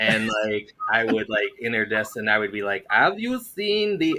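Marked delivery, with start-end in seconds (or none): 2.9-4.2 put-on pitched-up Middle Eastern accent. Retelling greeting people at the door, put-on Middle Eastern accent. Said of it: "I would just start going into that Middle Eastern accent".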